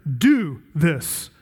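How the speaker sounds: "Do" leaned on, slow and weighty; stress on do. Shown as a demonstration. Preacher stressing "Do" to his congregation. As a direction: press the verb "Do" to mark it. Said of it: "Same verb".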